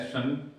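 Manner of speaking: सन as a short isolated "san"; pronunciation demonstration. Shown as a demonstration. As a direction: say सन on its own with an s. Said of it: "उच्चारण मैंने बताया था".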